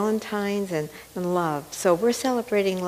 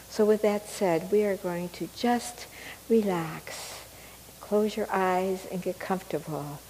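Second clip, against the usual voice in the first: guided meditation; 4 dB quieter than usual. Acted. Leads into a meditation.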